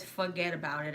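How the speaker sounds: "fuggedaboutit" in Brooklyn accent. Shown as a demonstration. Reading out the Brooklyn bridge sign, Brooklyn accent. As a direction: run it together, Brooklyn-style. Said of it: "a sign that actually says".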